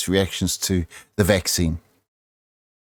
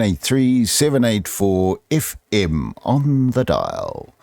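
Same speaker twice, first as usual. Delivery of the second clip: radio announcer. Pretend. Third intro take, slowed.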